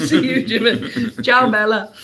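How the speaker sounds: loud, laughing hammed-up Italian goodbyes; sing-song fake Italian farewells between laughs; mock Italian accent. Saying goodbye to June like Italians, loud mock Italian accent. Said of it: "I'm even trying to do the accent".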